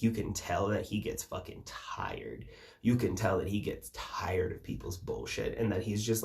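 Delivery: hushed, breathy whisper; whispered aside. Real, not acted. To the viewers about tired Jesus, whispered. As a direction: drop to a conspiratorial whisper.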